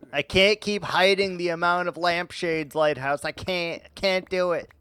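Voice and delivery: high, loud mock exasperation; mock desperate plea. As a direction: plead at the end of your rope, hammed-up. Mock plea about hiding lampshades.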